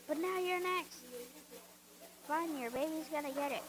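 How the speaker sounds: loud hammy threat; mock menace. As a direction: threaten the pig like a villain. Menacing the pig.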